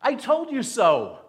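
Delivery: loud, high, accusing Jonah; Jonah's bitter told-you-so; indignant I-told-you-so. Retold or imitated. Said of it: "Jonah is saying".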